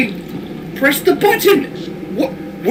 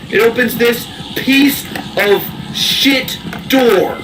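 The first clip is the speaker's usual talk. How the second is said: mock dramatic voice; slower than usual. Repeats line in mock dramatic voice.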